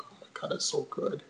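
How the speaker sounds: whispering in awe over the food; a retold whisper of delight; whispered rave. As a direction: breathe it out in a hushed whisper. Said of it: "I'm like".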